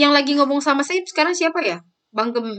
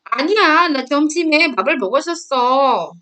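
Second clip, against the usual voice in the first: acted protest; faster than usual. Younger sibling answering the older one's accusation, acted protest.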